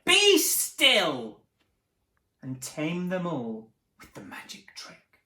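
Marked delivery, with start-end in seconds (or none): 0.0-1.4 high, loud command. Acted. Max orders the wild things, loud and high. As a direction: stop them all with one order. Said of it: "Until Max said".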